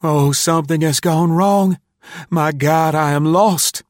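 high, loud cry of ruin; anguished high wail of a lost boy; terrified despair. A narrator's reading. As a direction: cry out in panic, voice pitched high. Boy despairs, wild with terror.

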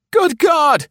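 loud, very high cry of horror; hoarse cry. A narrator's reading. Spy hearing he is to be shot, crying out hoarsely. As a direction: cry out in shock, voice shooting up. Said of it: "he cried hoarsely, almost inarticulately".

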